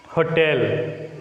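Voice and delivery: Hotel said as ho-TEL; weak ho, stronger TEL in Hotel; second-syllable stress. Shown as a demonstration. Teacher introducing an exception to the noun rule, Hotel stressed on TEL. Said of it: "takes stress on the second one".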